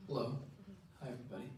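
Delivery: usual speaking voice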